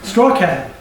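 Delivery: Straw Cat, the word said backwards; backwards speech. Shown as a demonstration. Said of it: "I'll say it backwards".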